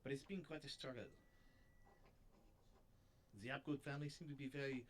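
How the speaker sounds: attempted French accent, lightly done; a shaky go at a French detective; amateur French accent, mildly put on. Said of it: "I don't know if I can do a French accent".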